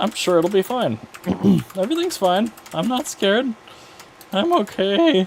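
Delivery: put-on cracking voice, very high, swooping. Talking to viewers as a device draws more power, the speaker uses fake voice cracks. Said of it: "Those were fake voice cracks for dramatic effect".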